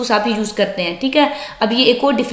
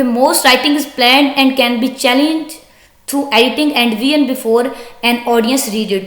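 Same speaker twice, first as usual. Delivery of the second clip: slow, deliberate reading aloud of an English text; slow textbook reading; much slower than usual. Acted. Teacher reading the textbook sentence to students, slow and deliberate. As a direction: read it out word by word for the class.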